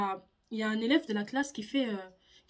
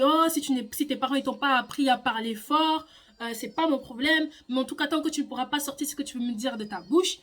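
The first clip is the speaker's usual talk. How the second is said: louder, lecturing scold; teacher's scolding; 6 dB louder than usual. Retold or imitated. Teacher humiliates pupil before class, mild mock scolding. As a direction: tear into her like a cold teacher.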